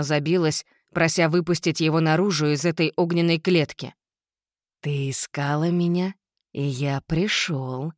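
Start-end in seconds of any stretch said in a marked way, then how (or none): 4.8-7.9 demonic whisper. Acted. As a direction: hiss it like a demon tempter. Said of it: "прошипел демон".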